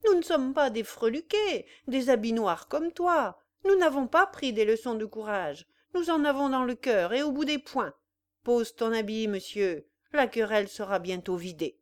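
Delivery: a peasant roaring for a fistfight; angry challenge. Acted. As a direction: spit it at him like a brawler. Bluty challenges Bénédicte to fight.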